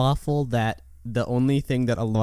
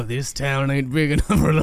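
put-on Cajun accent. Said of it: "I'm a hundred percent in on a Cajun accent".

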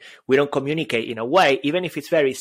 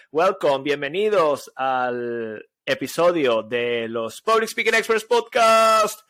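mock announcer welcome; slower than usual. Mock grand Spanish podcast welcome.

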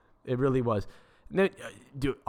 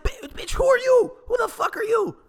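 much higher, loud mock-furious yell; outraged shout; 4 dB louder than usual. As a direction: scream back at her in disbelief. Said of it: "It's like".

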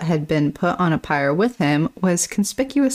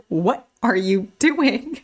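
imitating baby; 5 semitones higher, slower than usual. Imitating baby Hel in bed.

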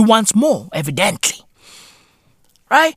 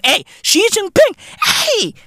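much higher mock shout; calling out; 12 semitones higher than usual. Hailing Xi Jinping on arrival, in a high mock shout. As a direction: hail him across the street.

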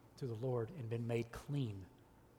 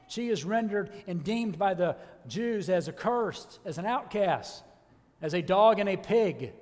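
raised, emphatic pulpit delivery; forceful preaching; 6 semitones higher, 7 dB louder than usual. Real, not acted. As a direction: press each point on the congregation.

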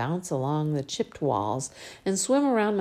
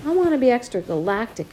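through tears; 7 semitones higher, 4 dB louder than usual. Acted. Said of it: "I say, through tears".

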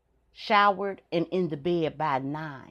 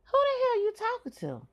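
high, rising sharp challenge; exercising authority at dawn; stern mom demand. Retold or imitated. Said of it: "I say".

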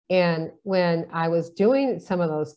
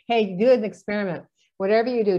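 a little louder, upbeat and playful; laughing advice; 3 semitones higher, 4 dB louder, faster than usual. Retold or imitated. Telling a coworker to try it, playful and bright. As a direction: tease a friend into a test. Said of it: "I would laugh and go".

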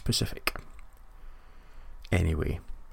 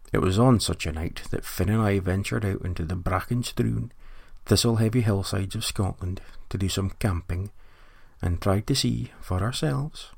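nature documentary. Acted. Spoof nature documentary narration.

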